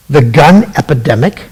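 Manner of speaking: disbelieving question, rising at the end; incredulous echo. Real, not acted. Host mocking Hillary's phrase to listeners, incredulous. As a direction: repeat "The gun epidemic?" as if it makes no sense. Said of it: "We have an epidemic of the gun?".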